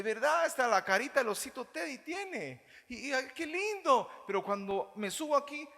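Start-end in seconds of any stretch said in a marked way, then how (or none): 3.1-4.1 much higher, lightly cooing; mock adoring sigh. Pastor mimicking a doting churchgoer, high light coo. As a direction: sigh it like a smitten fan.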